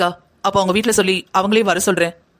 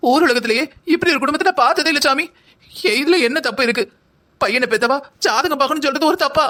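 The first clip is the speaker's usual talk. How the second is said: put-on tearful outburst, pitched up; wounded mother's hammed-up crying complaint; tearful protest; 3 semitones higher than usual. Mother tells the family to leave her out, tearfully. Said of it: "அவங்களே அழுதுகிட்டு இருக்காங்க".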